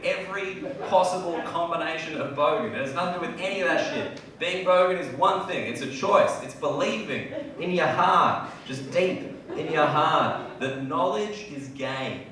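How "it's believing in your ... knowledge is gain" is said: mock solemn.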